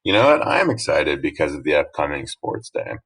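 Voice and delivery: relaxed, easy statement of a feeling; chill statement. Shown as a demonstration. Teacher showing a chill speaker stating a feeling, relaxed. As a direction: say it laid back, no fuss. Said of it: "just kind of being chill about it".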